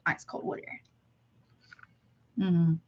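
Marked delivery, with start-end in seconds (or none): 0.1-0.8 1 whispered aside. Real, not acted. Aside about her water.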